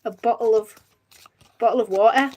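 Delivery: tentative London pronunciation; a hint of a London accent. Shown as a demonstration. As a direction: try out how Londoners say it. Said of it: "how London people say that".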